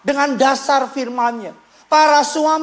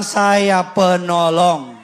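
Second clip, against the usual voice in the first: slow, lower line for the church to repeat; slow congregation prompt; 6 semitones lower, much slower than usual. Shown as a demonstration. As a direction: say it slowly so they can echo it.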